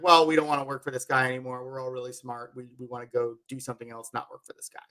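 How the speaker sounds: low, soft, quick aside; retold quiet grumbling. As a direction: lightly voice a group conferring privately. Retold scientists conferring about leaving.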